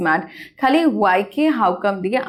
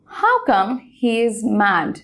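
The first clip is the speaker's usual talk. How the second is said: slow, deliberate classroom demo; slow model sentence; much slower than usual. Shown as a demonstration. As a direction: read very slowly, falling at the end. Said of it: "দেখো প্রথম এক্সাম্পলটা".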